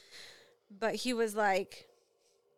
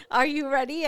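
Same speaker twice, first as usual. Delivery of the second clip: louder, higher game voice; playful challenge; 5 semitones higher, 10 dB louder than usual. Retold or imitated. Mother starting a practice game with her son. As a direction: hype up a toddler.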